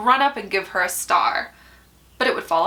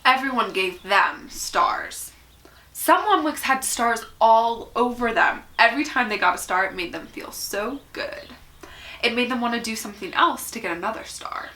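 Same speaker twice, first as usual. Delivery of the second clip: measured picture-book read-aloud with lifted key words; story narration. A narrator's reading. Reader telling children about small wooden people, storybook narration. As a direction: read it expressively, pausing between phrases.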